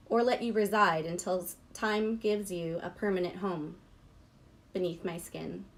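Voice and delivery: measured poetry-reading voice. Real, not acted.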